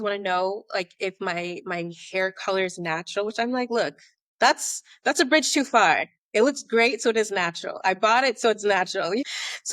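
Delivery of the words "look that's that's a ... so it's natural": loud, emphatic comeback; mock-firm retort. Answering questions about whether my hair is natural, mock-firm retort. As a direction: playfully lay down the law, punching the words.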